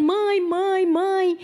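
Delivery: high mock wail, repeated pleadingly; imitated crying. Weeping voice on the phone calling mother, imitated crying. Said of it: "a voz ficava lá chorando".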